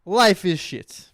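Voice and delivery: very slow, heavy mock doctor voice; deadpan it slowly, like the doctor.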